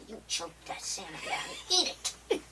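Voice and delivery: lightly imitating her mother ordering her; mock stern mom. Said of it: "hearing my mom's voice go".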